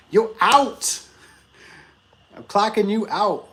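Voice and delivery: high, playful mock order; joking quote. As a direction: hand down the verdict as a gag. Tanner's joke retold, laughing.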